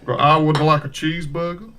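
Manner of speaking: put-on Southern accent. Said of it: "you did kinda sound like you were from the South".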